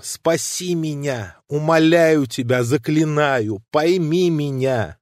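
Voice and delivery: a touch of a tremble, slow pleading; mild shaky plea to a friend; trembling voice. Acted. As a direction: beg him, voice unsteady. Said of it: "сказал он дрожащим голосом".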